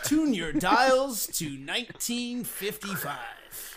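put-on slow old-time radio voice; old radio announcer. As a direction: play a vintage radio host, slow. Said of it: "old radio voice man take over".

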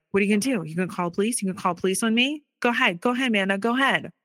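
mocking. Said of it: "mocked me and was like".

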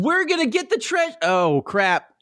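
mock pirates voice. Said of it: "the pirates are just like".

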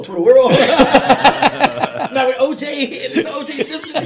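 laughing loudly; cracking up mid-sentence. Real, not acted. Joking about Twitter, laughing hard.

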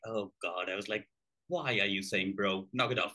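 exasperated. Retold or imitated.

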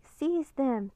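shouted command. A narrator's reading. King orders soldiers to catch the children, shouting. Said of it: "the Dragon King shouted".

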